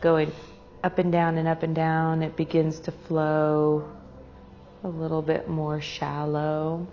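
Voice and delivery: unhurried meditation guide with long pauses; guided meditation. Real, not acted. Meditation leader guiding a group to their breath, calm and unhurried. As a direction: lead them gently inward, pausing between phrases.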